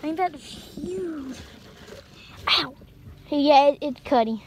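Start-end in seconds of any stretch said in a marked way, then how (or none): 2.5-4.4 1 startled yelp. Real, not acted. Squash leaves scratch her legs.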